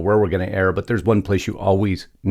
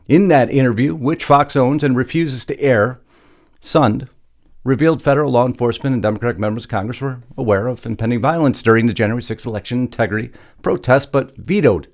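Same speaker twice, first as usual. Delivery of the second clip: raised, louder news-script delivery; news story read; 4 semitones higher, 4 dB louder than usual. Acted. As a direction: read the script out with punchy emphasis.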